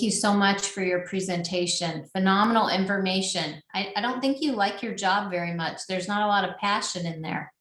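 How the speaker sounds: deadpan sarcastic teasing. Pretend. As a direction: pretend to criticise, tongue in cheek. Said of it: "Sarcastically, I'm saying that".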